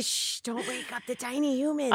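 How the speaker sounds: hushed, shushing a sleeping house; quiet at night. Pretend. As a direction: whisper so the kids stay asleep. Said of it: "I was gonna say".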